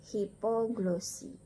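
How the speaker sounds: "hipoglosi" slowly, one p; single P demo. Shown as a demonstration. Teacher modelling the Latin, "hipoglosi" slow with a single p. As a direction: draw out "hipoglosi" as hi-po-glo-si. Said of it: "P P double dibaca P satu".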